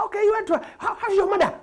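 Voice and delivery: high, bright mock English asking; mock polite English neighbour. Comic imitating a Londoner asking after his mother. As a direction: play a polite English stranger.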